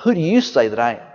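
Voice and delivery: low, soft and fast, cutting straight to it; pointed. Retold or imitated. Jesus pressing his disciples, pointed and hushed. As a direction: press the question home quietly. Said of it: "But he got real pointed to them".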